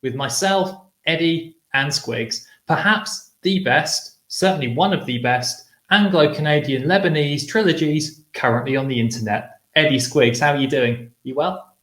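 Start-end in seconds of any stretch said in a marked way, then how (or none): 0.0-9.6 higher, ringing welcome that settles into a measured intro; host's opening patter; show-opening announcer. Acted. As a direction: greet a worldwide audience like a presenter. Opens the show as host.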